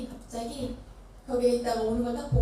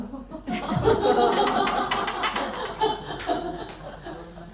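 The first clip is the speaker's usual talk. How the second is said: real laugh; 6 semitones higher than usual. Real, not acted. Laughs as phone is answered.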